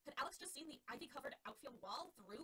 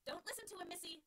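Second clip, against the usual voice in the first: catcher calling out; 7 semitones higher than usual. Acted. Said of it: "the catcher called".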